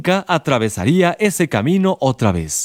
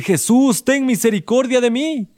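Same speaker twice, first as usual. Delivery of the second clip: pleading; 10 semitones higher than usual. Shown as a demonstration. Invites the audience to plead.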